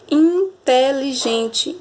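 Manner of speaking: slow, stretched "inteligente"; teacher sounding out in-te-li-gen-te; syllable by syllable. Shown as a demonstration. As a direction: draw out each syllable of "inteligente". Sounding out a five-syllable word.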